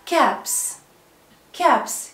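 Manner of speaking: "كابس" ending in a clear voiceless s; final s sound. Shown as a demonstration. Teacher drilling final s for pupils, "كابس" ending in s. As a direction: say "كابس" as caps, with an s at the end. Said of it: "ودي غالبا بننطقها اس".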